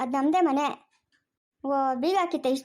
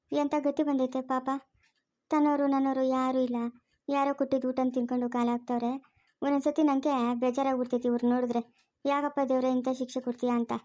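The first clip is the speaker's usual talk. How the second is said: subdued, slightly lowered sorrowful voice; pitying lament; 2 semitones lower than usual. Acted. Elder pitying homeless men and questioning God, sorrowful.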